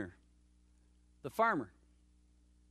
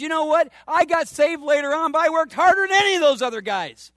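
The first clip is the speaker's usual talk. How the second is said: louder, raised voice playing Paul bragging; loud mock brag; Paul's boast; 8 semitones higher, 7 dB louder than usual. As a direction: boast it out like Paul showing off his hard work. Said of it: "He says".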